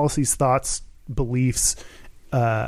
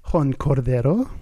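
put-on name said with a Spanish accent, rolled r; mock Spanish accent on the name; light Spanish accent put on for a shoutout; 3 semitones lower than usual. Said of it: "Got to use my Spanish accent".

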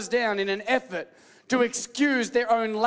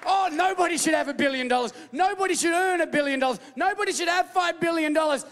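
mocking shout; 5 semitones higher than usual. Mocking critics of the rich.

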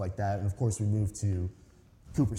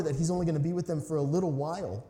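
ordinary talk

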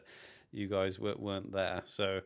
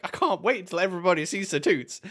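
excited gush; 8 semitones higher, 4 dB louder than usual. Retold or imitated. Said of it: "we're all excited, being like".

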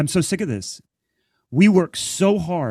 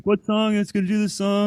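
higher, cocky voice of the boss; mock pushy drummer; 9 semitones higher than usual. Boss steps up to the drums, imitated higher and cocky. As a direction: play the eager amateur, pitched up. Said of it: "he's like".

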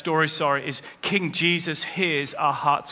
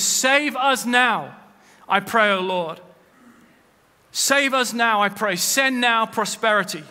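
David's cry; 4 semitones higher than usual. Acted. Preacher voicing David's psalm as an imploring cry. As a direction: lift the plea up slowly like a psalm. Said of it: "He says".

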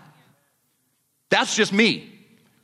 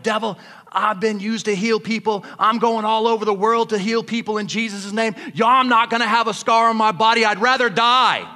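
yelling at the devil; 4 semitones higher than usual. Retold or imitated. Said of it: "I'm yelling at the devil".

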